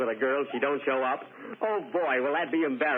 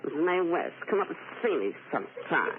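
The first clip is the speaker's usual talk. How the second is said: Mae West impression; 3 semitones higher than usual. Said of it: "Do you think you can imitate Mae West?".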